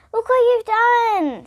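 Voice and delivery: slow, high reproachful voice. Acted. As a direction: drag it out in reproach. Sister reproaching slowly.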